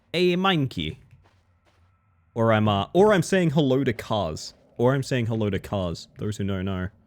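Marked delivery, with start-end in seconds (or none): 0.2-1.0 thick, laid-on Brooklyn accent, pitched up. Saying a game item's name as if it were Mikey: Brooklyn accent. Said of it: "Sounds like I'm saying Mikey with a Brooklyn accent".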